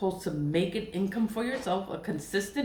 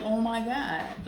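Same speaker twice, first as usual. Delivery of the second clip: higher, slow, stretched Oh my God; drawn-out gasp; 5 semitones higher, slower than usual. Retold or imitated. Reacting to the stories, slow higher shocked Oh my God.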